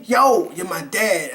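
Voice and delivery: said slowly and deliberately; slow line. Shown as a demonstration. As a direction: spell out the line slowly and clearly.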